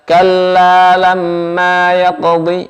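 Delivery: yaqdi with the tongue tip, front; wrong dhad. Shown as a demonstration. Teacher shows the mistake, dhad from the tongue tip. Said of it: "Jangan dibaca".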